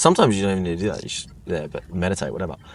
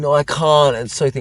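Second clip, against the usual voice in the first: mock dramatic delivery, higher and louder; 6 semitones higher, 4 dB louder than usual. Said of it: "being really dramatic".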